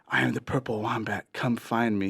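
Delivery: soft, understated eerie summons; lightly voiced distant mystery creature; mysterious calling voice. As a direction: beckon quietly from the dark. Mysterious voice calls at night.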